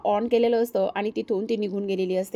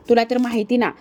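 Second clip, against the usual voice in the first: तुला तर माहिती ना restarted louder and firmer; 6 dB louder than usual. Acted. Praju insists to her brother, restarting louder. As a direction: lean hard into तुला तर माहिती ना. Repeated line, second take louder.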